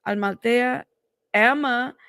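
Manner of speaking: Amalthea tried as al-ma-TAY-a, then broken off; unsure stab at Amalthea; tentative name attempt. Real, not acted. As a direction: feel out Amalthea and stop short. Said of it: "help me with the pronunciation".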